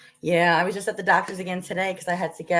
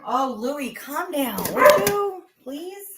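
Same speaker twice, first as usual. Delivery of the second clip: high-pitched plea to a noisy dog; exasperated plea; 10 semitones higher, 4 dB louder, much slower than usual. Real, not acted. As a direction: beg the dog to settle down. Pleading with barking dog to calm down.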